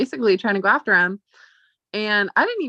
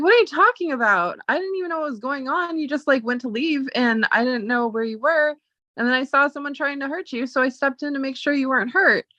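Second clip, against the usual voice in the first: indignant protest; 5 semitones higher than usual. Retold or imitated. Heated defense to angry friend.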